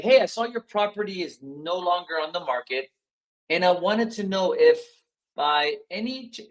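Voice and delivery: puzzled, unsure seller call; sounding confused. Shown as a demonstration. Coach demos a confused call to a seller. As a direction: let a little confusion creep in. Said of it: "do you notice what I did with my voice there".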